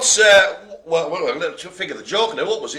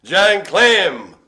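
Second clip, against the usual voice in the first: put-on American accent; 7 dB louder than usual. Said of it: "Why are we doing it in American accent".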